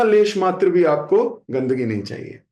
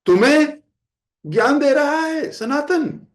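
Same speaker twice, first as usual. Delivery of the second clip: higher, louder, slow scolding; stern rebuke; 7 semitones higher, 3 dB louder than usual. Retold or imitated. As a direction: dress him down with rising heat. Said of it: "महाप्रभु ने कहा".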